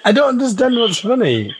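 high, laughing protest. Real, not acted. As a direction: giggle through the words. Laughing after fit.

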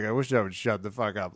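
soft, low muttered wish; hushed private grumble, pitch dropped; quietly. Retold or imitated. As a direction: keep it under your breath. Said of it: "like, quietly".

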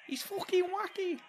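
goofy wacky voice. Pretend. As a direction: ham it up like a cartoon hype man. Goofing on wacky line.

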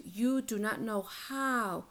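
slow, deliberate weight on "how"; stress on "how". Real, not acted. Coach telling a friend what they lack, stressed "how". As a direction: draw the sentence out slowly toward "how". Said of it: "I want to emphasize the word how".

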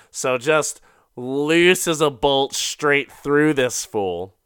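a touch of movie-trailer drama; dramatic slow build. Acted. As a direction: stretch it out for the big shot. Dramatic kill moment.

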